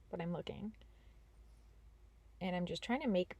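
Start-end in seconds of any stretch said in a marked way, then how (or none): 0.1-0.7 whispering. Real, not acted. Trailing aside.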